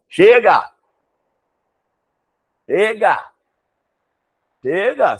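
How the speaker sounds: loud, high "Chega!"; teacher calls a loud stop, mock fed up; mock exasperation. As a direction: call a halt, fed up. Teacher cuts off word list.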